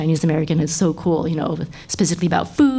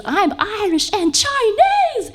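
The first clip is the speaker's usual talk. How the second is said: put-on high, slow childlike proud statement; imitating her daughter; much slower than usual. Daughter proudly repeating her heritage, slow high childlike voice. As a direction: stretch it out up high like a proud toddler. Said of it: "so now she goes".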